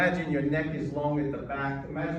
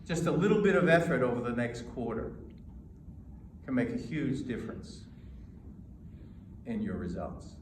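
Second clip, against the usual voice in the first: encouraging; 3 semitones lower than usual. Shown as a demonstration. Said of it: "Or maybe I could say this".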